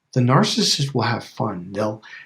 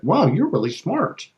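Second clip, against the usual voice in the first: higher, admiring wow; mock impressed wow; 6 semitones higher than usual. Mismatcher praising the one who mismatched, mock admiring. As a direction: act pleasantly amazed.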